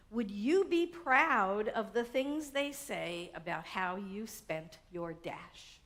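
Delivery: slow, measured poem recital; unhurried recitation of a poem; poem reading. Acted. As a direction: read the verses slowly, savoring them.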